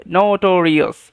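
নোটোরিয়াস said clearly with a closed "no"; long O pronunciation. Shown as a demonstration. Teacher repeating the word for students, long O pronunciation. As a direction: model নোটোরিয়াস as "no-to-ri-as". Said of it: "এরকমভাবে উচ্চারণটা হবে".

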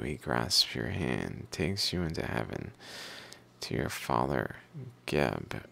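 measured recital of an ancient text; reading aloud. Acted. Reader reciting Pyramid Texts about bread, beer and gates, reading aloud. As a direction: read it out evenly, phrase by phrase.

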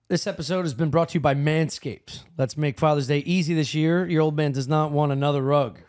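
even, scripted podcast sponsor read. Real, not acted. Host reading a Father's Day sponsor spot, ad read. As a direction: read the copy like a host's ad spot.

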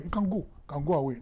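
quick, offhand brush-off; a light mock boast, shooing them off; boastful. Jesus imagined as boastful, waving the crowd off quickly.

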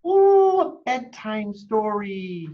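high eager exclamation; thrilled little voice; excited. A narrator's reading. Chicken eager reply.

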